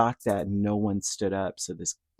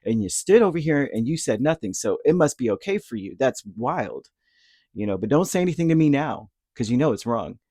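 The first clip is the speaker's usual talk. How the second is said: woman losing it; 2 semitones higher, 3 dB louder than usual. Retold or imitated. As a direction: tell them off like she lost it. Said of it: "she just lo-, like, lost it".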